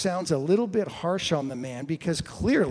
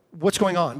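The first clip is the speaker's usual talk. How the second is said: louder retold question to a crowd; asking the crowd; 3 semitones higher, 6 dB louder than usual. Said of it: "he asks the crowd".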